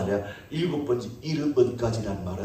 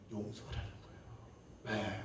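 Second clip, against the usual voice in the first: whisper; 4 semitones lower, 20 dB quieter than usual. Real, not acted. Preacher answers own question.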